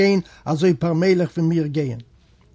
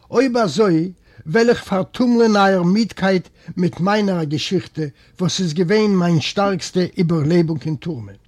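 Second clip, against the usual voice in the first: raised voice, louder, telling his tale; calling out loud; 5 dB louder than usual. Acted. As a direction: call out to the group. Jefimov ruft laut. (laut ausrufend, eine Geschichte ankündigend)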